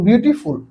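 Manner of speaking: "বিউটিফুল" divided as "বিউটি" and "ফুল"; split in two. Shown as a demonstration. Teacher gives students an example of a two-part word, split in two. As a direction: say "বিউটিফুল" in two distinct chunks. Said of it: "দুইবার ভাঙানো যায়".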